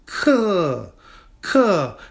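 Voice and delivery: Ke held high and level, first tone. Shown as a demonstration. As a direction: sing Ke on one high steady pitch. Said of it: "that's a first tone character".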